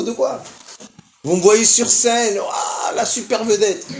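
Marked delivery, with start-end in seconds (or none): 1.2-3.9 mock shout. Mocking the envious onlookers.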